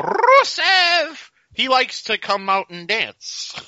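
high, slow mock Russian accent; Lana. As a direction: call the name out high in a fake Russian accent. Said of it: "Lana when she was doing the Russian accent".

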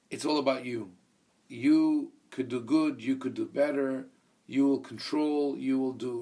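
YOU leaned on at the start of each clause; stress on YOU. Shown as a demonstration. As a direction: put the weight on the word "you". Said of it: "don't emphasize the word "you".

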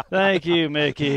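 mock thanks through a laugh. Real, not acted. Golfer thanking the man who eagled on him, laughing. Rueful thanks after losing hole.

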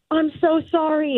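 apologetic, like a singer. Retold or imitated. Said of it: "her being like".

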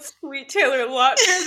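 slow, laughing mock yell; retold yell. Friend retelling her own yell after hitting the bedpost, laughing mock yell. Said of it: "I yelled".

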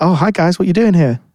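chirpy greeting, gently put on; chirpy guy. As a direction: play a cheerful stranger at the door, lightly. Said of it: "really chirpy guy".

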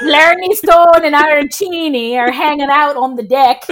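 badly faked Irish accent. Reluctant co-host trying it on request, bad Irish accent. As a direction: attempt an Irish accent and miss. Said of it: "I can't do an Irish accent".

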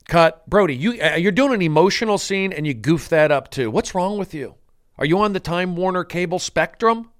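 exasperated director, played for laughs; mock scolding. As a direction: cut in and tell off the actor. Acts director scolding himself mid-scene.

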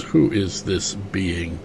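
slow, soft, unimpressed Vader; Vader line. Retold or imitated. Vader dismissing a Hutt underling, slow and soft. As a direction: drawl it out, bored and quiet. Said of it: "And Vader just goes".

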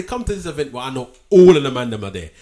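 London street talk, casual; london roadman accent. Retold or imitated. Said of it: "And I say".

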